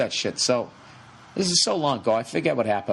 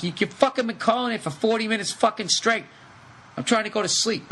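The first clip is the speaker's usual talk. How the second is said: exasperated yell; 7 semitones higher than usual. Retold or imitated. Yelling at caller on phone.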